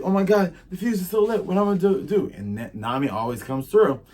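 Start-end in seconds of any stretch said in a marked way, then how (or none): 0.0-2.3 high, loud flustered worry; mock panic. Nami sees the fuse still lit, acted high panic. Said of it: "And so she's like".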